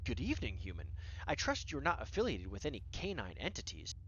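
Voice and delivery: lightly British talking cat; a hint of a regal British cat; British accent. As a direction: put on a touch of a formal British accent. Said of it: "in a British accent".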